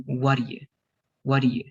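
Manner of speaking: "what do you" as "waddiya", with an EE in the middle; E sound, contracted. Shown as a demonstration. Teacher drilling the past form, E sound. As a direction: middle vowel EE, never "uh": "waddiya". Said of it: "it has to be E instead of".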